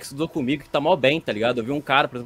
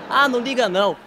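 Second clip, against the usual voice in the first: higher, drawn-out dismissive reply; lightly mimicked old person; 4 semitones higher than usual. Old person excusing someone being badmouthed, lightly mimicked dismissal. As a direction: wave it off like an indulgent old-timer. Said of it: "uma coisa que o velho sempre fala".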